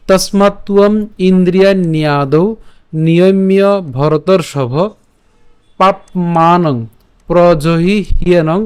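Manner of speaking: slow, measured Sanskrit chant; verse recitation. Shown as a demonstration. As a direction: recite each word slowly and clearly. Reciting the verse again slowly. (ধীরে ধীরে শ্লোক আবৃত্তি)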